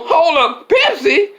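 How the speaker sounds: Nancy objecting to being called Pepsi, high and giggling; indignant Nancy Pelosi. Acted. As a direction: squeal it offended through laughter. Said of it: "Nancy go".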